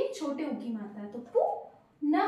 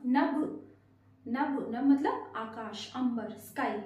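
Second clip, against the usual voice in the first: slow explanation; 3 semitones lower, slower than usual. Shown as a demonstration. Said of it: "slow explanation".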